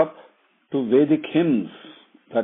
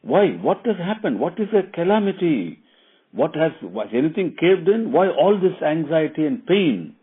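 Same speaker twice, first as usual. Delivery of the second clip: higher, anxious rush of questions; fearful questions; 7 semitones higher, 3 dB louder than usual. Retold or imitated. Queen asking her maid in sudden fear, higher and anxious. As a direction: ask in alarm, voice pitched up. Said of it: "inquired in fear".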